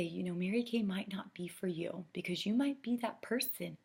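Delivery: soft, hushed confiding pitch; quiet and low-key. Shown as a demonstration. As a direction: say it gently, as if letting them off the hook. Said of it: "and I lower my voice".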